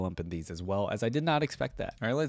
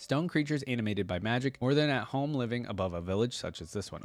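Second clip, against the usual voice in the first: storyteller's reading voice, even and unhurried; reading a story to viewers; story narration. A narrator's reading. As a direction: read it like a bedtime tale. Reads interactive story aloud.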